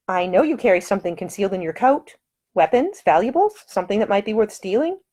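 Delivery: a proper lady, lightly voiced, scolding; high-voiced prim woman, firm and offended; indignant lady. Woman probes Nick.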